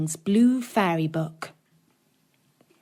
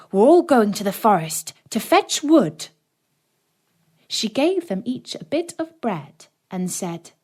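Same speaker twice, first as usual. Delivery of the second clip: bossy stepmother; 3 dB louder than usual. Acted. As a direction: rouse them sharply and louder. Stepmother wakes children.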